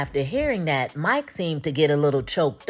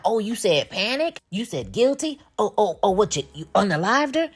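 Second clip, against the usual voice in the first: high-pitched mocking pounce on a slip; mock blurting; 6 semitones higher than usual. Imitating Mike pouncing on a witness's slip, mock blurted accusation. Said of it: "so he can blurt it out".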